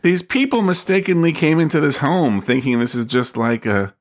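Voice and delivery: dopey, laid-back dude; clueless dude voice. Retold or imitated. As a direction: play it dazed and unbothered. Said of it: "he is kind of just like".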